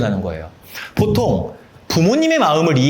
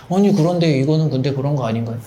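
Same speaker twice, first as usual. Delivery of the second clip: lightly voiced dim-witted objector; 멍청한 사람 흉내; 2 semitones lower than usual. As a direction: put on a mild dull-witted voice. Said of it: "멍청한 사람 표정 연기하는 겁니다". (살짝 멍청한 사람 흉내 내는 말투)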